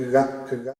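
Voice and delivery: "ga" as people mistakenly try the sound; isolated "ga", imitating a learner's attempt; attempted pronunciation. Shown as a demonstration. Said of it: "la gente intenta pronunciar".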